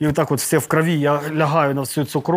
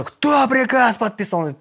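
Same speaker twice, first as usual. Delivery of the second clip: slow, higher, weighty demand; stern demand; 7 semitones higher, slower than usual. Retold or imitated. Commander on the phone demands who signed, slow and stern. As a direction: slowly demand the name.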